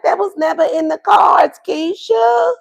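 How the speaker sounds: high hammed-up shout at Keisha; mock shout. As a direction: throw it back with a mock yell. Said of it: "you're like".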